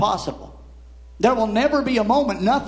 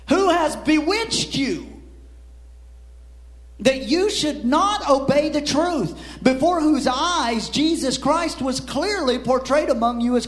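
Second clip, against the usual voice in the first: higher-pitched, emphatic scripture challenge; bold rebuke; 4 semitones higher than usual. Acted. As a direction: read it as an exclaimed scolding. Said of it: "He wasn't saying it timidly".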